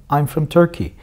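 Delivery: I'm from Turkey said quickly, from with a schwa; fast I'm from Turkey with from reduced. Shown as a demonstration. Teacher shows how I'm from Turkey sounds in fast speech. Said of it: "Ama bunu hızlı okuduğunda".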